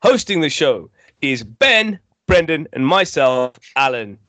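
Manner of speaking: slick game show host voice. Pretend. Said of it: "why do you sound like a game show host?".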